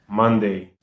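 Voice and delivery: Monday said slowly and clearly for the class to repeat; teacher models Monday, clear and falling; model pronunciation. Shown as a demonstration. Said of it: "Répétez après moi".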